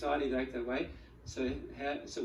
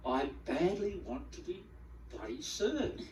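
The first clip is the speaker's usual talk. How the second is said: mock impatient craving; 3 semitones higher than usual. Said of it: "what it means to feel the addiction".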